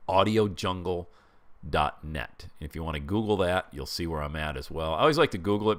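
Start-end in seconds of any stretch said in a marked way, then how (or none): 0.1-2.5 slow and clear. Shown as a demonstration. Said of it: "It's called audio jungle dot net".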